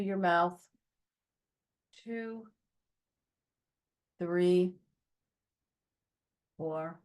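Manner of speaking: calm, unhurried guiding voice with long pauses; guided breathing meditation. Shown as a demonstration. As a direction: lead them gently through the breaths, leaving space between phrases.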